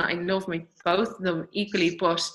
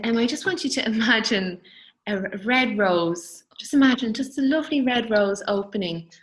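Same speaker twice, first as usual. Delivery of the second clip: retelling calm words; 2 semitones higher, 3 dB louder than usual. Retold or imitated. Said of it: "she said it so calmly".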